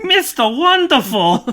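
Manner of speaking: high, loud, laughing shout of the name; giddy fan squeal; excited laughing cheer. Real, not acted. Gushing over the commercial.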